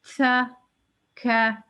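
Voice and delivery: छ and ख held then released as a breathy whisper, slowly; slow, let the breath out like a whisper; छ, ख with audible air; whispered release. Shown as a demonstration. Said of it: "और फिर whisper".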